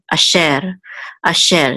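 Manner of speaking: asher said as ah-SHER with an eh vowel; asher, stress on sher. Shown as a demonstration. Teacher sounding out asher for students. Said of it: "This sagol says eh".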